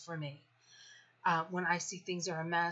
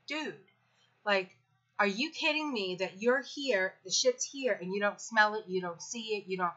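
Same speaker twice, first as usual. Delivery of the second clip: exasperated. Retold or imitated. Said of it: "and I'm like".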